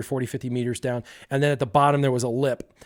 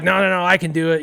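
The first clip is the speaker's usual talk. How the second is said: higher, louder quick refusal; insistent protest; 4 semitones higher, 5 dB louder, faster than usual. Acted. Kid insists to his brother, insistent and raised. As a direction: brush the warning off eagerly.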